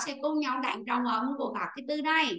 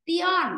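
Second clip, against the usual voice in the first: "tion" set apart, higher and louder; isolated suffix; 4 semitones higher, 5 dB louder than usual. Shown as a demonstration. Teacher points out the word's ending, "tion" isolated and emphatic. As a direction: pick out the ending "tion" on its own. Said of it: "Từ này nó có đuôi".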